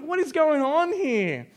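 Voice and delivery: slow, loud, high bewildered question; father overwhelmed by kids in Bunnings, loud slow exasperation; exasperated dad. Retold or imitated. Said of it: "I'm like".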